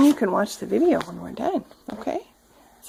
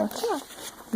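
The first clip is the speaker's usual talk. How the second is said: quick hushed watch out; soft whispered caution; whispered warning; 5 semitones higher, 12 dB quieter than usual. Real, not acted. Aside warning while reading to toddler.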